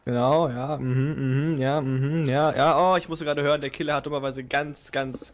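mock sports reporter. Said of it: "hier kommt gerade eine Sondermeldung rein".

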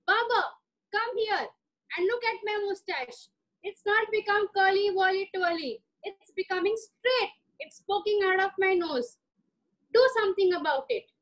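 high, fussy royal complaint; a petulant king making demands; complaining Raja. Acted. Raja summons the royal barber, high and fussy.

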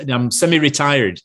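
lightly imitated Lancashire sound man; Lancashire accent. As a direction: slip into a mild Lancashire accent. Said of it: "talked in a sort of Lancashire accent".

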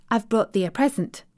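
grinning Yorkshire maid: "present" said warmly, as a treat; Yorkshire accent, smiling, "present" plainly stated; cheerful Yorkshire offer. Acted. Maid proudly offering the girl a gift, grinning Yorkshire voice. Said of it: "with a cheerful grin".

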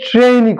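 ট্রেনই said "treyin-i"; an i glide after the e in ট্রেনই; correct "trein" glide. Shown as a demonstration. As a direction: stretch the vowel of ট্রেনই from e to i. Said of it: "উচ্চারণটা এই যে".

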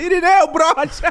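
imitated yell. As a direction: play the neighbour yelling it from next door. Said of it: "Imagina o cara na casa dele".

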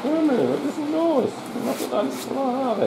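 high cooing pet voice. Real, not acted. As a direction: scold the cat sweetly up high. Cooing to the cat.

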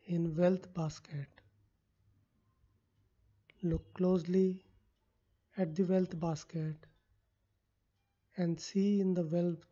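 measured meditation voice with long pauses; guided visualization. Acted. Coach leading listeners into a wealth palace visualization, unhurried guiding voice. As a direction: guide the listener phrase by phrase, leaving space.

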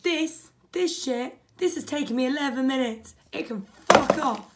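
building to a loud outburst; getting angry. Real, not acted. Builder loses patience with the Lego, getting angry. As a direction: let the anger boil over. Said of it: "I am getting fucking angry".

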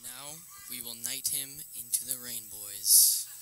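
slow, solemn knighting proclamation; mock ceremonial. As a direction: intone it slowly like a mock knighting.

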